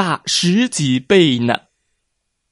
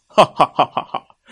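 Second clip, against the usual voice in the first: mocking laugh; 3 semitones higher, 3 dB louder, faster than usual. Whale laughs at lobster.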